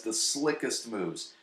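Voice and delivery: slickest drawn out slow; stressed quote. Shown as a demonstration. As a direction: savor the word slickest. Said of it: "He literally says".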